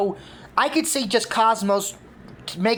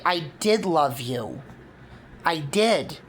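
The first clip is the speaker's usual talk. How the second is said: lower, slow, understated denial; lightly voiced crying villain; mild tearful pleading; 3 semitones lower, slower than usual. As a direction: insist through a hint of tears. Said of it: "Cosmos crying".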